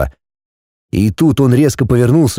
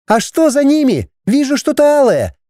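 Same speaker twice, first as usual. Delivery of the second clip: high excited shout; shouting over wind. A narrator's reading.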